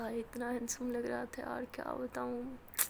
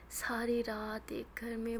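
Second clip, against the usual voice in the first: sly tease; much slower than usual. Acted. Teasing friend whispers.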